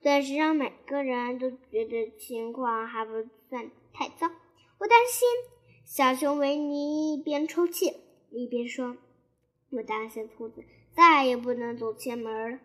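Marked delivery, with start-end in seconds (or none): 4.8-12.6 mild sobbing. Acted.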